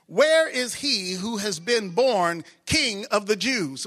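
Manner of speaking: slow, solemn reading of verses; scripture reading. Acted. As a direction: read the passage with weight.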